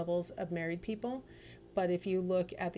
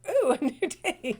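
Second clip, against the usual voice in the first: laughing dog; 7 semitones higher, 8 dB louder than usual. Retold or imitated. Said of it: "be like a dog every day".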